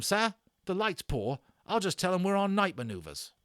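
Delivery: put-on high, loud old soldier griping about the damage; a rattled army corporal complaining to his officer; British army corporal. Corporal grumbling to young Omri about ruined weapons, loud and indignant.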